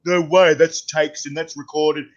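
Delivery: slow, scoffing imitation of sceptics; mock disbelief, drawn out; retold doubters. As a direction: mimic dismissive doubters, dragging the words. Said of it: "people going".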